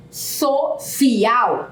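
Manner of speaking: "social" slowly, broken after the first syllable; slow, paused pronunciation. Shown as a demonstration. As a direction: say "social" with a deliberate pause inside it. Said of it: "Ao pronunciarmos pausadamente a palavra".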